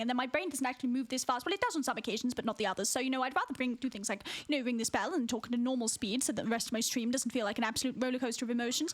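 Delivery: chatty posh British ramble; posh British accent. Pretend. Streamer explaining talking speed to friend, posh British accent. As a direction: keep rambling in proper British English. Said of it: "in the British accent".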